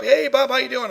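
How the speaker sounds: high-pitched friendly hello; cheery greeting. Retold or imitated. Wife's friend greeting him at the mall, imitated high cheery hello.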